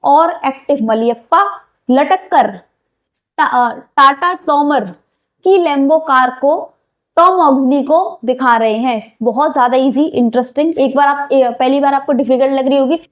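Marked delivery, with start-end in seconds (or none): 0.0-9.2 slow recitation. Shown as a demonstration. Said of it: "तो यहाँ पे चार नाम है".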